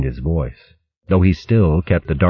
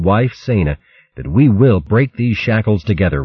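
solemn oath; 3 semitones higher than usual. Acted. Luke swears an oath.

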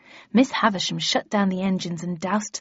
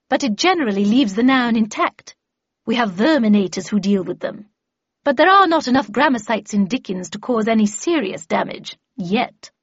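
louder, lightly voiced lecturing lady; emphatic expert voice, raised a little; Miss Havisham; 2 semitones higher, 5 dB louder than usual. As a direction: explain it with brisk authority. Miss Havisham explaining in character.

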